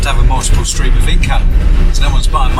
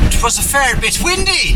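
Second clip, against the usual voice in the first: put-on high, lilting Irish accent; 10 semitones higher than usual. Vlogger remarking on the windy weather, Irish accent. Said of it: "talking in an Irish accent".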